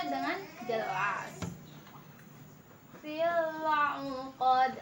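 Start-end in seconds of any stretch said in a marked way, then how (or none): 3.0-4.7 very slow, careful tajwid reading; slow recitation demo. Shown as a demonstration. Teacher shows the student the correct reading, slow and careful. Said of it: "Hati-hati ya, ini bacanya u".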